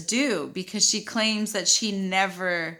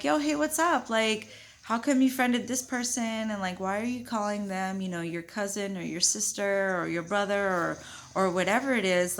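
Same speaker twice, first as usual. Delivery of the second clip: casual, non-yelling question. Retold or imitated. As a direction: ask casually, without any attack. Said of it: "talking just like this and asking".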